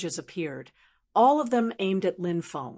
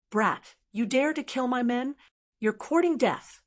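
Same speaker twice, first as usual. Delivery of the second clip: a touch higher, mild threatening anger; angry shout; 4 semitones higher than usual. Acted. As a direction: snarl a warning, understated. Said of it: "The young man shouted angrily".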